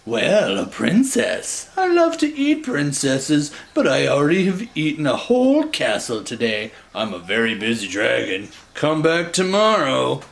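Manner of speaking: a busy dragon brushing her off; lightly voiced dragon. Dragon voiced in read story.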